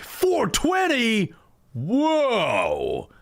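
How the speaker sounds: surprised. Real, not acted. Spots the number 420.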